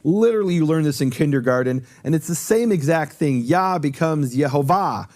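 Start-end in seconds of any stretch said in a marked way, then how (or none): 3.4-5.1 slow, with "Yehovah" stressed on its final "va". Shown as a demonstration. Teaching a Hebrew rule to the audience, he slowly stresses the final "va" of "Yehovah". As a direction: lean on the "va" of "Yehovah" and take it slowly. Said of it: "the emphasis is on the va".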